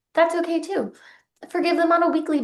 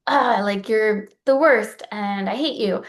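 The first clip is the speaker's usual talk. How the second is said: mock exasperated complaint; overemotional venting. Shown as a demonstration. Showing how not to word the letter, mock venting. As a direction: groan it out with mock resentment. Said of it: "putting all of this emotion into".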